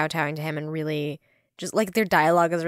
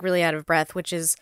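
ordinary talk

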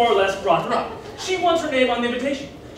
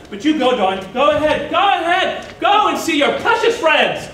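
mother's mounting, wounded send-off; acted martyred mother; huffy dismissal; 3 semitones higher, 3 dB louder than usual. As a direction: send them away crossly, rising to a slow last jab. Mother dismisses son in quarrel.

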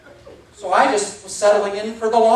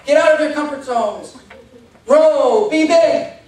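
pumped-up self-help speaker, louder; mocking motivational guru; 5 semitones higher, 7 dB louder than usual. Mocking the gurus to the audience, pumped-up preaching. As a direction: ham up a guru's pep talk. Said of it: "they all tell you".

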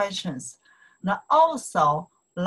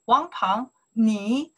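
voicing Leo; 2 semitones higher, 4 dB louder than usual. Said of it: "Leo ask Wang Peng".

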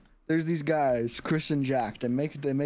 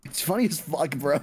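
frat bro; 3 semitones higher, 3 dB louder than usual. Retold or imitated. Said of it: "You sounded like".

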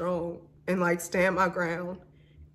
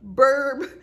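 burp; 6 semitones higher, 5 dB louder than usual. Real, not acted. Burp mid-sentence.

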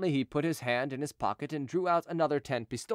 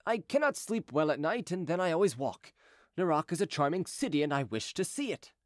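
lightly voiced gentleman, a little higher; Chicot, airily explaining; 3 semitones higher than usual. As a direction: make your excuse sound casual. Chicot figure in story narration.

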